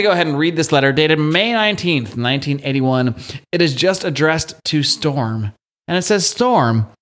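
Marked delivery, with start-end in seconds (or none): 6.3-6.9 put-on Southern accent. Podcast host reading a dead bully's letter, light Southern accent. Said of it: "I don't know why he's Southern now".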